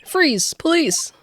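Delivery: high, loud command; police shout. Acted. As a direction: burst in and order them to stop. Police bursting in.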